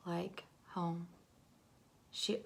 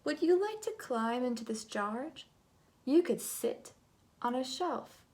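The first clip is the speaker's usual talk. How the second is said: polite coaxing; 3 semitones higher than usual. Acted. Swatch politely coaxing yellow into a jar. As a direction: sell the jar like a kind offer. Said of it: "she asked politely".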